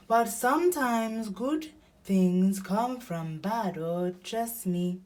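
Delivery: slow, drawn-out owl voice; slow reassurance from a storybook owl; wise Owl. A narrator's reading. Owl comforts Elephant.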